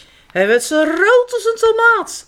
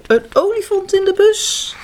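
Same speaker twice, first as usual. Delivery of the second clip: olifant in de bus said higher with delight; playful wonder; 7 semitones higher than usual. Shown as a demonstration. Teller repeats the title to the children, wonder-struck. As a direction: make the kids picture it. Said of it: "Zie je het al voor je?".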